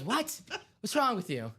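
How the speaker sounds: high, loud indignant yell; mock angry shout. Imitating a host snapping at a caller, high and loud. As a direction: bark it in disbelief. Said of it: "He goes".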